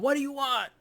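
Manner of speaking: loud, high exasperated yell; acted-out angry shout at a child; irritated parent yelling. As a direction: snap at a pestering kid, yelling. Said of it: "you yell at 'em".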